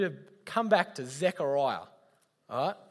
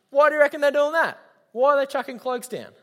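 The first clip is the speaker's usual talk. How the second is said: laughing question; 6 semitones higher, 7 dB louder than usual. Real, not acted.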